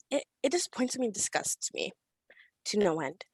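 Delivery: hushed, breathy disgust; whispering her disgust at the board. Real, not acted. Angry speech drops to whisper.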